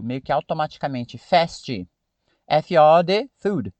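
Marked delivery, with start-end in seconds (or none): 1.2-1.9 "fast" said "festi" with an added i; Brazilian-accented English. Shown as a demonstration. Teacher demonstrating the Brazilian habit, mock accent. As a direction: add the support vowel to "fast". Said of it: "Eu crio uma vogal de apoio".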